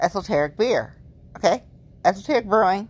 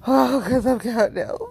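mock crying; 4 dB louder than usual. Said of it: "I had that freak out moment today".

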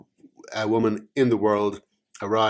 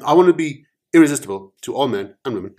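quick eager rewrite; 4 semitones higher, 7 dB louder, much faster than usual. Acted. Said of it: "I am adopting the the joke".

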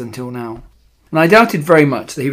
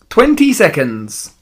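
slow, loud witch's countdown; drawn-out theatrical cry; 2 semitones higher, 5 dB louder, slower than usual. A narrator's reading. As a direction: call out, stretching each word. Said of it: "cried the Grand High Witch".

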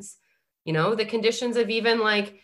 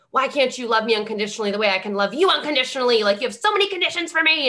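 pleading with parents; 5 semitones higher, 4 dB louder, faster than usual. Retold or imitated. Pleading quote to family.

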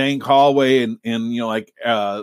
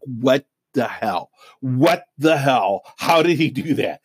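slow, drawn-out stunned reaction; retold freaked-out disbelief; slower than usual. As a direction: draw each word out, recalling being freaked. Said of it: "I was, like, freaked".

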